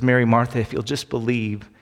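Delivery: Jesus calmly reassuring Mary and Martha. Retold or imitated. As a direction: gently comfort the sisters. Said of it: "Jesus just looks calmly at them".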